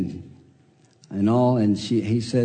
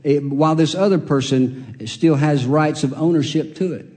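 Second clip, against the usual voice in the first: raised, earnest explaining voice; Boaz explaining; 3 semitones higher, 3 dB louder than usual. Acted. Boaz tells Ruth the law bars him, raised and earnest. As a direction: lay out the law firmly to the young woman.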